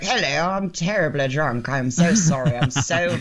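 slow, hammed-up fake posh English accent of a drunk uncle; mock a bad fake English accent, drawn out. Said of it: "the accents were so terrible".

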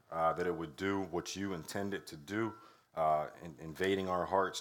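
prayer. Real, not acted. Pastor opens with prayer.

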